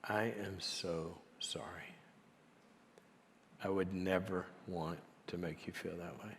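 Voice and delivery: hushed heartfelt apology. Retold or imitated. CEO sitting down beside the chairman to apologise, hushed and sincere. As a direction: apologise tenderly, almost under your breath.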